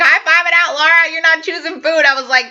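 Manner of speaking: high, loud, giddy cheering to herself; excited self-cheer. Retold or imitated. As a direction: celebrate in the mirror, almost in tears. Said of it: "I'm like".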